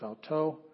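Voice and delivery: "auto" with the final syllable stressed; "auto" pronounced ow-TOE; stress on last syllable. Shown as a demonstration. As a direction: put the weight on "to" in "auto". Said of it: "the emphasis on the last syllable".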